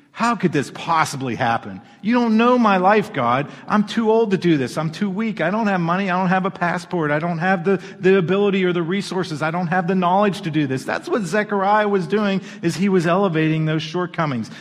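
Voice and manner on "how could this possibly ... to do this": listing excuses, pleading and a little higher; excuse-making complaint. Retold or imitated. Zechariah protests to the angel, mock pleading. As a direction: whine out every excuse you have. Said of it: "this was elevating his excuses".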